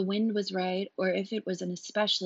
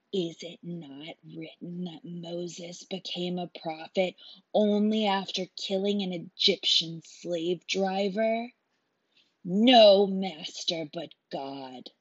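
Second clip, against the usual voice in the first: menacing zealot. Acted. Zealot murderer justifies killing.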